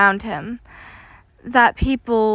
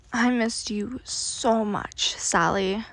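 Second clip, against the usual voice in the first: slow, whispered and strained; quiet, a little strained; 5 dB quieter, slower than usual. Acted. Larry hugging his best friend tightly, quiet and strained. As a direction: whisper it slowly, straining with feeling. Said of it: "his voice quiet and a little strained".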